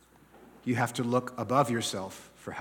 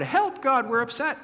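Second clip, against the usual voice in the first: pleading cry; 10 semitones higher than usual. Pretend. Israelites cry out under attack.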